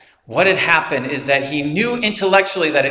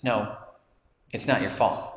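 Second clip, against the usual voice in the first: soft insistence; 6 semitones lower, 9 dB quieter than usual. Retold or imitated. Sean leaning closer to Will, soft and insistent. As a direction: lower and softer, gently firm. Counselor repeating comfort, closer.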